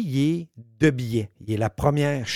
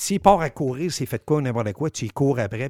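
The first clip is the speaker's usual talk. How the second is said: urgent instruction; 3 semitones higher, 6 dB louder than usual. Retold or imitated. To Fred about the suspect running, urgent raised orders. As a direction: bark out the plan to chase him. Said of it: "Ben, j'ai dit".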